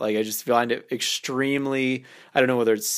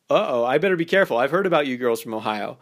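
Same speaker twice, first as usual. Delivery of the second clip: teasing innuendo; faster than usual. Shown as a demonstration. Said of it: "now you're insinuating something".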